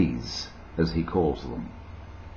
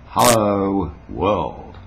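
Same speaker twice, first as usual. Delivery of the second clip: louder "hello", falling on "world"; announcer-style greeting; 3 dB louder, much slower than usual. Acted. Telling internet viewers it truly reaches everywhere, announcer style. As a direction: round off with a radio sign-on. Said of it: "I mean, this is really".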